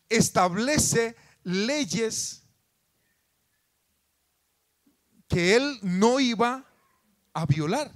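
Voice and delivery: loud, high, impassioned sermon voice; fervent preaching. Acted. Pastor preaching passionately to his congregation. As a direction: preach it with rising fervor.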